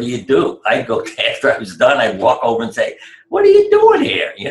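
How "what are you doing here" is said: very high, loud mock disbelief; astonished outburst. Lecturer spotting a patient thought dead, loudly astonished. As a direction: cry it out in high-pitched amazement.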